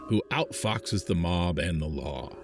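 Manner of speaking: dramatic movie trailer read; announcer voice. Pretend. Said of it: "How'd you like my announcer voice?".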